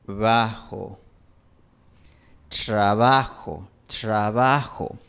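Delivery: "trabajo" con tr asibilada, casi chr, lento; asibilated tr. Shown as a demonstration. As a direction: di "trabajo" con tr como en inglés train. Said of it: "se suele pronunciar así". (tr asibilada serrana)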